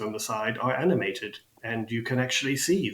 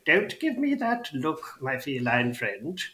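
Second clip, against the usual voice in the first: put-on elderly goblin, reproving; 3 semitones higher, slower than usual. Goblin chides his feline customer, reproving elderly goblin. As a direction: chide slowly as an old goblin.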